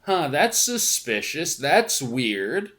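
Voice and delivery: drawn-out "Huh", then a slow, rising "suspicious"; leaning in, mock suspicion. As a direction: play a suspicious double take. Mimics own suspicious reaction.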